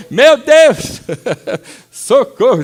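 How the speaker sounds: hammed-up terror cry for help; mock panic. Panicking at crow screams, laughing.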